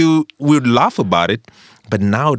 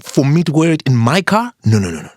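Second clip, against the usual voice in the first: raised-pitch indignant questions; mock indignation; 4 semitones higher, 3 dB louder than usual. Mechanic refusing greasy overalls in a client's car, mock-indignant. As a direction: protest in comic outrage.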